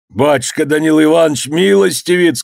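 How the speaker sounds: high beseeching call; crying out. A narrator's reading. Cook clinging to master, high pleading cry. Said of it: "кричал повар".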